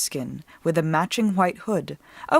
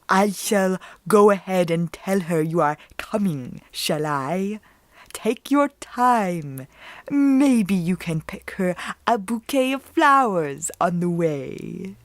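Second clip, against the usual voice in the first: sly false wolf; slower than usual. Acted. Wolf voice held over the lines.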